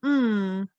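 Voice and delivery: "mm" as a held hum; letter sound. Shown as a demonstration. Teacher showing learners the Spanish letter's sound, held hum. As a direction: hum "mm" with closed lips. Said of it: "It sounds like".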